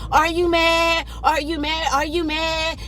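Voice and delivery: high, repetitive taunt; retold hollering. Mama taunting her in the argument, high mock holler. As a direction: imitate her goading, pitched well up. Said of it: "she starts hollering at me".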